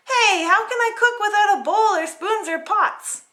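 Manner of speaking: exasperated outcry; indignant princess. Acted. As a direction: call out through the locked door. Paulina calls through door.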